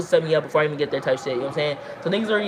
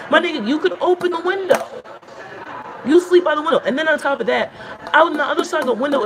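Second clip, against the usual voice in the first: exasperated laughing; 9 semitones higher than usual. Real, not acted. Exasperated rant about roommate.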